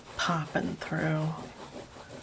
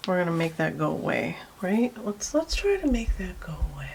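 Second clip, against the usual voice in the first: weird calm voice; faster than usual. Real, not acted. Artist musing to herself over the drawing, weirdly calm. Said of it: "weird, calm voice".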